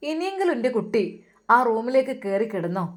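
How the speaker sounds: mother urges son to sleep in his room; mother's plea. Acted. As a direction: coax her son gently. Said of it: "ഉമ്മ പറഞ്ഞു".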